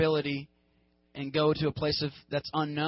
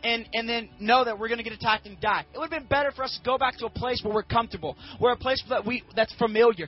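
freaking out; 3 semitones higher than usual. Acted. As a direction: rant at Moses in mounting indignation. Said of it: "they freak out at him".

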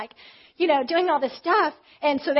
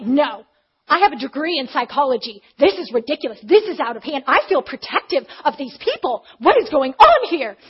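loud, emphatic imitation of an indignant woman; dramatic protest; 8 dB louder than usual. Upset newcomer refusing to be soothed, dramatic protest. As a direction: punch each accusation, building to a loud outburst. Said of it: "she's just being so dramatic".

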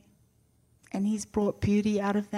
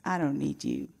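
put-on fierce toddler; 7 semitones lower than usual. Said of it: "give you the look that".

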